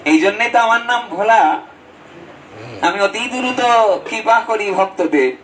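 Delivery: a hint of the kindly god speaking to devotees; voicing Bholanath. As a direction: Shiva gently promising grace. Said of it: "বলে".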